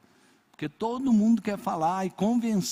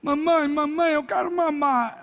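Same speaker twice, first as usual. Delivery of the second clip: higher, mock baby voice; pretend baby; 8 semitones higher, 3 dB louder than usual. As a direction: beg mommy like a hungry baby. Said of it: "eu acordei". (neto pedindo mamar à mamãe, voz de bebê fingida)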